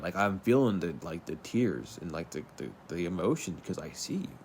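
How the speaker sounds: real tears rising while encouraging viewers; teary-eyed. Real, not acted. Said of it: "I'm getting teary-eyed".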